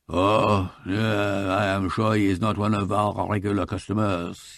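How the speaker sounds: put-on polite shopkeeper with a light French accent; lightly voiced French jeweller, courteous. Jeweller Briquet answering the detective, light French accent.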